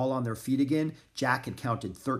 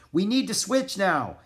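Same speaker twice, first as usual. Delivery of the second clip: high, raised calling voice; 8 semitones higher, 4 dB louder than usual. A narrator's reading. Jack to Annie on the sled, calling out. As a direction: call across to your partner. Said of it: "he called to Annie".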